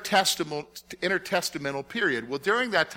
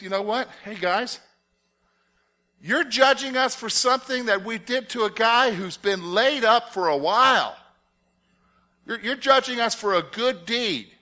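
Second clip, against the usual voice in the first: Peter answering; 5 semitones higher than usual. Pretend. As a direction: speak up boldly for Peter before the council. Preaching Peter's reply to council.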